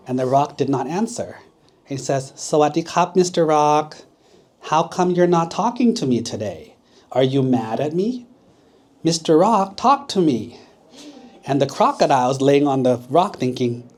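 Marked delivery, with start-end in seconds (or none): 2.4-10.6 coaxing call. Acted. Monkey coaxes the silent rock.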